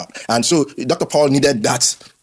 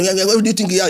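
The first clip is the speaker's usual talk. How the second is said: mock indignation; 7 semitones higher, faster than usual. Mocking pastors' insults.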